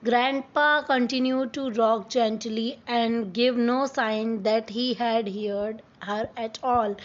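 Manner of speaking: slow, careful read-aloud of the English text; story reading. Acted. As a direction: read each word out slowly for the class. (धीमी आवाज़ में कहानी पढ़ना)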